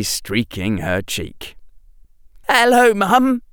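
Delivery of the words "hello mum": high, wobbling with tears; wavering voice. Acted. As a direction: voice breaking as he greets her. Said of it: "with his voice wavering".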